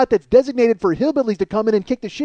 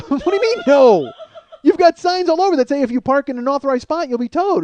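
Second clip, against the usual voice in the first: incredulous; 4 semitones higher than usual. Retold or imitated. Incredulous to owner.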